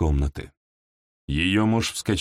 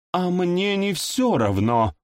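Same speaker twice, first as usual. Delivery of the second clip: slow, higher, icy anger; cold fury; 9 semitones higher, slower than usual. A narrator's reading. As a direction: spit it out in cold rage. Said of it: "с холодной яростью в голосе воскликнула".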